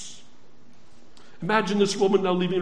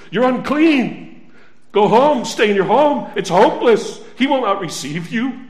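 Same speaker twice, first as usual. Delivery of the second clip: accusing inner voice; 2 semitones higher than usual. Acted. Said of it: "a little voice said inside her".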